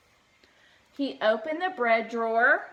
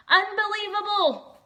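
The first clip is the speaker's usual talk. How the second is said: rumbled; 10 semitones higher, 7 dB louder than usual. Acted. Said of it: "rumbled Bear".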